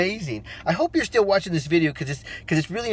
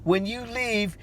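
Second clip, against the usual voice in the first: high, slow, sympathetic teacher voice, imitated; teacher's concern; 7 semitones higher, 4 dB louder, slower than usual. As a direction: mimic the teacher, high and drawn out with pity. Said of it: "She said".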